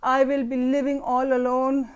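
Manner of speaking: put-on slow, drawn-out wail of a five-year-old; mock tragic child, stretched very slowly; dramatic child. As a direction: ham up a child's melodrama. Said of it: "پورا اس نے drama create کیا".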